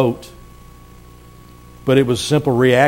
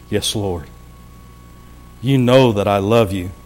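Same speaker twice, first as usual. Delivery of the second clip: humble Peter; 5 semitones lower than usual. Acted. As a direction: answer meekly, almost under the breath. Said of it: "with a little emphasis here in the way I think Peter was responding".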